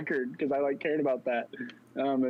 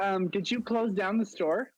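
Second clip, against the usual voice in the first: lightly voiced high, slow boss; a hint of a prissy manager asking; high, slow mock manager voice; 7 semitones higher, slower than usual. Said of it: "she was like".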